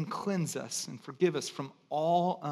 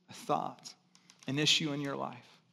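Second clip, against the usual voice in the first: ordinary talk, nothing marked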